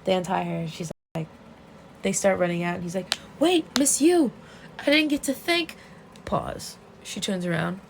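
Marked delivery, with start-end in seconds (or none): 3.4-5.8 high, loud pretend call; calling after someone. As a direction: call out to stop someone leaving, acted. Retold calling after someone leaving.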